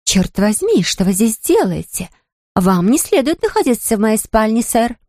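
playful put-on British accent as Lady Mary; a lightly hammed-up British lady; mock British accent. Lucy playing Lady Mary for Cecil, mock British accent. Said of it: "изобразила свой лучший британский акцент".

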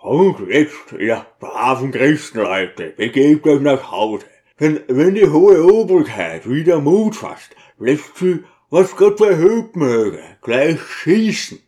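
a lightly played booming deacon; thundering voice. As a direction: thunder a warning down to the people. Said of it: "gewaltigen Donnerstimme".

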